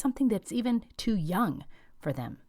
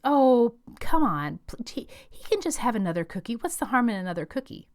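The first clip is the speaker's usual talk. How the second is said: pleading grandma; 5 semitones higher than usual. Acted. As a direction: coax like an indulgent grandma. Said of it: "and grandma says".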